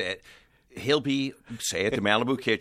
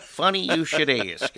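attempted Texas twang; 5 semitones higher, 3 dB louder than usual. Imitating Ray's reply about the car, in a shaky-attempt Texas twang. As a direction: have a rough go at a Texas twang. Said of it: "In his twang".

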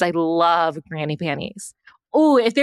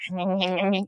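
quiet, quick rat-eating noises; little rodent munching sounds; imitated rat nibbling; 7 dB quieter than usual. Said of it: "eat like a rat".

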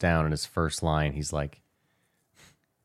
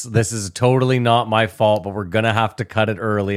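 mock apology; 3 semitones higher, 5 dB louder than usual. Imitating Kimmel's fake apology.

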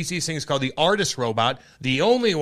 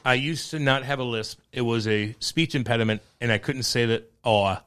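lisping around a chew of tobacco; 2 semitones lower than usual. Real, not acted. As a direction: mouth full of chew. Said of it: "'cause I have a chew in my mouth".

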